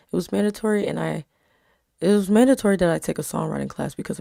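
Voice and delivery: even storytelling read; story narration. A narrator's reading. Reading her story aloud.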